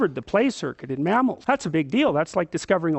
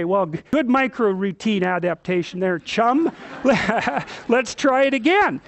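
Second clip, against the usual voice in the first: encouraging parent. Shown as a demonstration. Parent praises toddler setting the table, encouraging. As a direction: praise the kid and laugh along. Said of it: "You go down here and you say".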